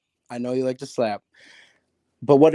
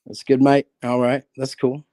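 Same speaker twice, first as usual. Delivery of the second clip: mock Australian accent, lightly done; an American's poor go at Australian; bad Australian accent; 4 semitones lower, slower than usual. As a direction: imitate an Australian, badly. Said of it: "Oh, mate, shocker ... accent. That's terrible".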